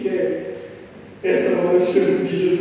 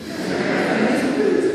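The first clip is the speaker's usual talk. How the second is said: whispered aside. Acted. Preacher stresses his point.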